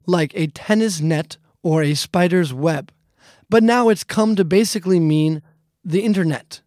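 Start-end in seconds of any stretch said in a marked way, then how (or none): none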